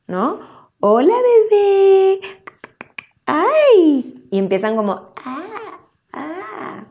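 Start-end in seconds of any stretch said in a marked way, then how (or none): 0.8-4.3 "Hola, bebé" very high and louder, sing-song; exaggerated baby talk. Shown as a demonstration. Adult greeting a baby, very high loud sing-song. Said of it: "trata de imitar la entonación". 5.2-6.8 put-on very high, very soft whimpery baby "ah"; baby imitating. Shown as a demonstration. Baby copying the adult's tune, high soft whimper. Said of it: "como a tratar de imitar la entonación".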